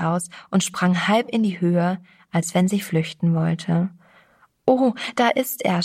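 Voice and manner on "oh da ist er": a higher, startled gasp of recognition; frightened stammer. Acted. Frightened girl spotting the stranger, stammering higher. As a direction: blurt it out in a small fright. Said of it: "stammelte sie".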